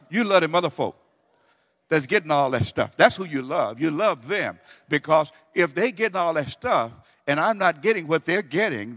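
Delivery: loud, hammed-up griping; mock complaint. People complaining to God about others' stuff, loud and hammed-up. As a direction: whine loudly like a spoiled child. Acting out a grumbling believer's complaint.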